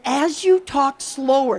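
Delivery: slowed, drawn-out words. Shown as a demonstration. Coach demonstrates slowing speech to calm people, drawn out. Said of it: "just by slowing down your speech".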